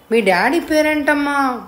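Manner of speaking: affectionate. A narrator's reading. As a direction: ask a little child sweetly, drawn out. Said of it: "ముద్దుగా అడిగాడు".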